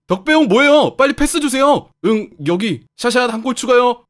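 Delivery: loud, high bright calls; cheerful eager striker. Acted. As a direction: push the captain for the ball, carefree. New striker eagerly demands passes. (덕배형에게 신나게 높고 크게 조르기)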